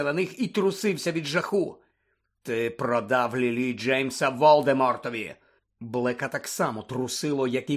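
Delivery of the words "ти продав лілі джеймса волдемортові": slow, contained hatred; hateful accusation. Acted. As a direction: accuse him slowly, weighing each word. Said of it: "а від ненависті".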